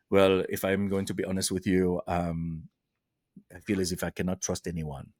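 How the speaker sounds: put-on low, hesitant French Canadian accent. Actress confiding in a castmate, low French Canadian accent. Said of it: "in her French Canadian accent".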